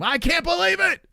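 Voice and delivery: high, loud mock wail of disbelief; disbelieving outburst. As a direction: cry it out like your world just ended. Imitating Kayanoto losing his mind.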